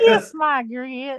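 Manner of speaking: slow, drawn-out Southern catchphrase; Southern accent. Acted. Quoting the show Alice, slow Southern accent. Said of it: "Flo had that southern accent".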